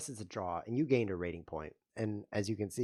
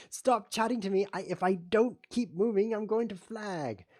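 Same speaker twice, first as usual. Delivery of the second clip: laughing protest; 11 semitones higher, 8 dB louder than usual. Real, not acted.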